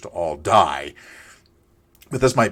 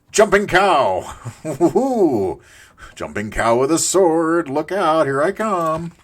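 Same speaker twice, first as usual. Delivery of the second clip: high, loud, stretched-out mock battle cry; playful whooping; 9 semitones higher, 6 dB louder, slower than usual. Player charging as a jumping cow, playful excited whoop.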